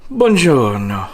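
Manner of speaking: fake Italian accent. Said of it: "fake French, Italian, whatever accent".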